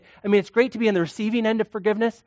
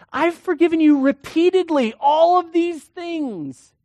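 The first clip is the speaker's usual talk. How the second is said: king scolding the servant he forgave, rising outrage; indignant rebuke; 7 semitones higher, 4 dB louder than usual. Acted.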